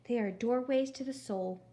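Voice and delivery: dreamy, sugary phone voice; too sweet voice. Acted. Gladys on the phone praising accordions, syrupy sweet. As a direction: offer it like a gentle revelation. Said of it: "in her too sweet voice".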